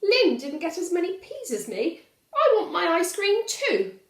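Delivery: put-on high loud childish demand; whining demand. Valdemar demanding ice cream from Papa, high loud whine. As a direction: plead and demand like a spoilt kid.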